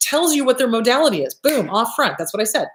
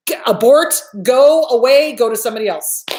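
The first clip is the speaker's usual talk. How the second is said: emphatic warning; 5 dB louder than usual. Real, not acted. Warning off a bad therapist.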